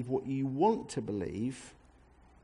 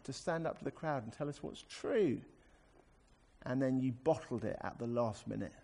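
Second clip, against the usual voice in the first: mock disappointment; 3 semitones higher than usual. Reader chiding the prophet who bottled it, mock disappointment. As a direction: lament it like a let-down supporter. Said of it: "that's how I used to read this chapter".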